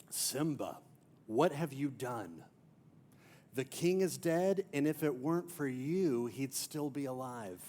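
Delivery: lightly voiced villain, silky and accusing; a hint of a scheming uncle laying blame; mild sinister Scar impression. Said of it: "most sinister voice ever".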